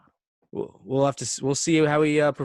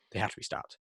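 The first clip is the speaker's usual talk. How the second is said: whisper; 3 semitones lower, 10 dB quieter than usual. Pretend. Mock grave call to action.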